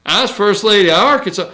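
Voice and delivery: mock Southern accent, fast; Hillary southern accent. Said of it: "with her southern accent".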